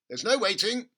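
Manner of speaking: high, loud eager cry; excited cry. A narrator's reading. Father cutting off his son, crying out. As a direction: cry out, too excited to wait. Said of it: "cried Mister Cranky".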